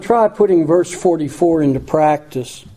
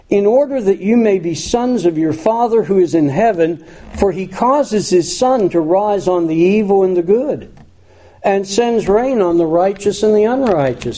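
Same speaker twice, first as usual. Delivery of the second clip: raised, measured reading of a Bible passage; scripture reading; 4 semitones higher than usual. Acted. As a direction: lift the verse up as you read it to the congregation. Reads scripture aloud in sermon.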